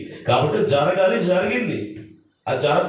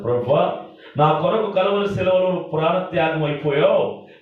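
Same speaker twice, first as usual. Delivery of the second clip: imitated weeping prayer; 3 semitones higher than usual. Shown as a demonstration. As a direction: model a mournful plea, stretching the phrase endings. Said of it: "అని ఏడవాలి". (ఏడుస్తున్నట్టు ప్రార్థన, హెచ్చు స్వరంలో సాగదీస్తూ)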